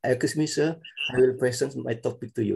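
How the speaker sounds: "present" said like the noun, PREH-sent; mispronounced verb. Acted. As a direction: say "present" with eh first, as a learner's mistake. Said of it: "so will be confused".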